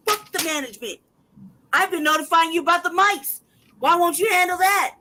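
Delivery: loud, high furious yell; real yelling. Real, not acted. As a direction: yell it at the management in real anger. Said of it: "I'm sorry I'm yelling".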